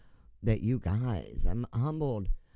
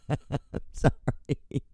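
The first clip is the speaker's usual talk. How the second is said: breathless giggled sorry; 4 semitones higher, much slower than usual. Real, not acted.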